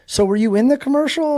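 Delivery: imitated phone agent. Talent agency lady questions the racer, imitated high voice. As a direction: lift the voice to mimic the puzzled agent. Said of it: "and she's like".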